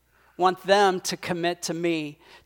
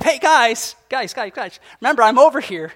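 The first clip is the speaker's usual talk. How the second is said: speaking up; 4 semitones higher, 7 dB louder than usual. Retold or imitated. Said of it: "The Holy Spirit speaks up".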